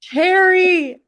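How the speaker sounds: loud, high, hammed-up Jersey "Cherry"; exaggerated New Jersey accent. Answers accent teasing, exaggerating it.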